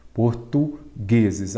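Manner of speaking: Portugueses drawn out slowly, syllable by syllable, stress on gue; slow syllable split. Shown as a demonstration. Teacher splitting Portugueses into syllables for students, slowly. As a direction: spell out Portugueses slowly, each syllable apart. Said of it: "vamos separar em sílabas".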